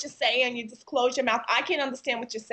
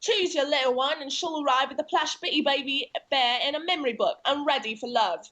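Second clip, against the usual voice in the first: Cockney accent; 2 semitones higher than usual. Shown as a demonstration. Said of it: "can you do low class British".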